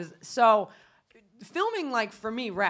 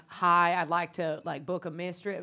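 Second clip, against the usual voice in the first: put-on Southern accent; 3 semitones lower than usual. Caller booking a mistress by phone, imitated Southern accent. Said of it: "this guy with a Southern accent".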